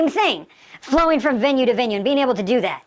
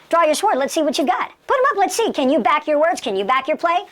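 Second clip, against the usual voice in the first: higher-pitched, goading challenge; rapid-fire dare, pitched up; confrontational challenge; 4 semitones higher than usual. Shown as a demonstration. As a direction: dare them to back it up. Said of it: "you're basically saying".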